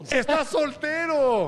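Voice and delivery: excited announcement. Real, not acted. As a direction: stretch it out like breaking news. Anuncia la noticia a gritos. (anunciando la noticia con emoción, lento y agudo)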